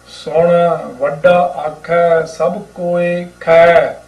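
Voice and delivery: slow, measured chanting read of the hymn; unhurried gurbani recitation; scripture recitation. Acted. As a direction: recite each word slowly and devoutly.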